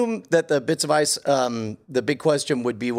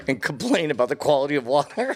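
laughing; faster than usual. Real, not acted. Laughing joke.

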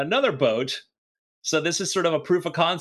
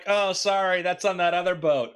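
higher-pitched mock apology; lightly voiced sailor breaking bad news; acted apologetic sailor; 4 semitones higher than usual. Crew telling a sailor dinner is elsewhere, mock apology.

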